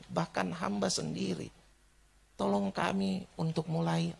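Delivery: unhurried, reverent closing prayer. Real, not acted. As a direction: pray earnestly with pauses between phrases.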